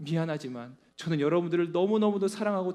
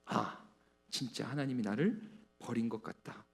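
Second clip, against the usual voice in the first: despairing; 9 semitones lower, 11 dB quieter than usual. Acted. Despairing believer's inner voice.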